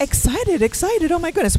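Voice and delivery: high, sing-song princess voice; cartoon princess. Real, not acted. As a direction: gush like a Disney princess. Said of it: "you sound like a Disney princess today".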